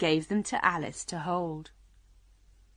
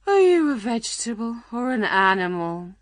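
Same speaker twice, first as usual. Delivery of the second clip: weary, higher and louder character voice; tired lion; 4 semitones higher, 5 dB louder than usual. A narrator's reading. Lion questioning Alice about what she is, tiredly. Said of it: "he asked tiredly".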